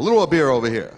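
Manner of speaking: a rowdy Irish patron calling out; Irish diner calling. Retold or imitated. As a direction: shout the order for beer to the waiter. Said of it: "An Irish table".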